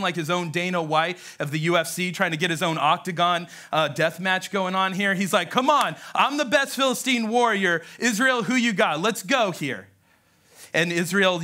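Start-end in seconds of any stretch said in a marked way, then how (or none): 5.5-9.9 lightly acted taunting challenger; higher-pitched cocky challenge, easing at the end; a hint of booming fight promoter; Goliath. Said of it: "in his booming voice. He's taunting the Israelites".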